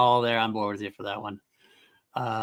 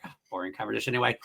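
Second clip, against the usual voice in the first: quick throwaway quote; 5 dB quieter, much faster than usual. Retold or imitated. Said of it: "I always get to the point where I'm like".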